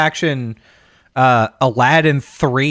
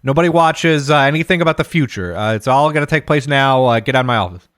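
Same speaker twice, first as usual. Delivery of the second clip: brash exec voice; 2 semitones higher than usual. Retold or imitated. Exec brushes off the writer.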